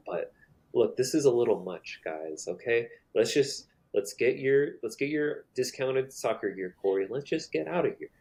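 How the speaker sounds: a hint of an anxious friend pleading; worried Claire. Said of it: "and she's like".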